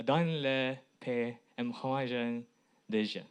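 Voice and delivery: halting French with an English accent; foreign accent in French. Real, not acted. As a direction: speak careful, hesitant learner's French. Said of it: "Euh, pardon mon français". (français avec un accent étranger)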